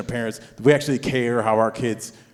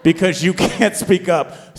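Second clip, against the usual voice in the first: raised, loud mock scolding; self-directed telling-off, pitched up; yelling at himself; 5 semitones higher, 4 dB louder than usual. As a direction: berate yourself in comic exasperation. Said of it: "I'm yelling at myself internally".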